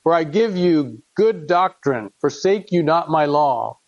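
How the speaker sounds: measured, solemn reading of scripture; earnest King James reading voice. Acted. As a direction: read it like a father pleading with his son. Reads Proverbs aloud to congregation.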